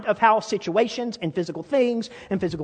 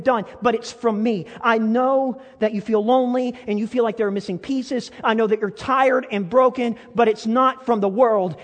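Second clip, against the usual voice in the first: voicing God, preached; 3 semitones higher, 4 dB louder than usual. Preacher voicing God's reassurance.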